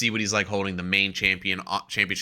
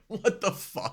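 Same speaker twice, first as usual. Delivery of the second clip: higher but softer, awed; hushed disbelief; 11 semitones higher, 5 dB quieter, slower than usual. Retold or imitated. Speaker watching the double chokeslam, hushed disbelief. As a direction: marvel under your breath. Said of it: "And I was like".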